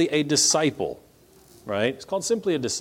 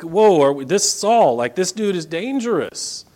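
alarmed Ananias; 4 semitones higher than usual. Acted. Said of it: "Ananias who's got some questions".

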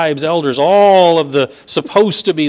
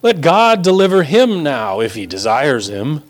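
mocking jeer. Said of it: "They go further".

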